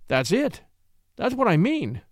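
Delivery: a touch of eagerness, rising; mildly excited exclamation; eager cry. Acted. Man on the ladder seizing his idea, mild eagerness. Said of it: "he cried eagerly".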